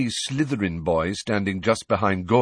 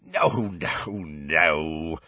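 chuckling; 4 semitones lower, much slower than usual. A narrator's reading. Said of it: "said Hagrid, chuckling".

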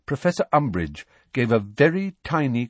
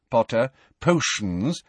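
faint smile; 3 semitones higher, slower than usual. Acted. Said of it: "with the merest flicker of a smile".

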